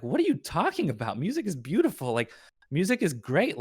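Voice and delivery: lightly acted defence of the music; mock indignant retort. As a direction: imitate parents pushing back in disbelief.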